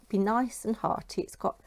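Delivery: ordinary talk, nothing marked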